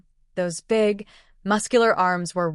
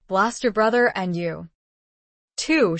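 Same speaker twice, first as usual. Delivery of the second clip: snapped. A narrator's reading. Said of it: "she snapped".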